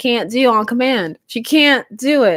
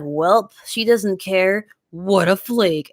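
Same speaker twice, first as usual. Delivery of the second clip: mocking others; slower than usual. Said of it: "they're all like".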